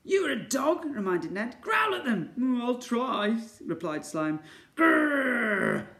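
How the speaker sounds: high, loud cartoon dialogue; excited characters. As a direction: voice the panicked pair. Ned and Slime voiced dialogue.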